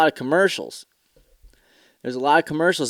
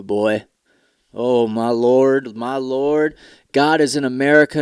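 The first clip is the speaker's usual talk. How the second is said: over-the-top patriotic pickup ad pitch; hammed-up truck ad preacher. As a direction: play a fervent car-ad salesman for laughs. Parody Ford truck ad.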